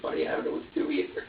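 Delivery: low, breathy, at a loss; hushed helpless reply. Retold or imitated. Father retelling his answer to the baby, low and hushed. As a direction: whisper your own helplessness. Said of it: "And I'm like".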